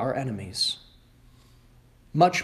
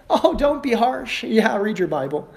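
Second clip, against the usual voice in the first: mock scolding; 6 semitones higher, 4 dB louder than usual. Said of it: "That's what they say".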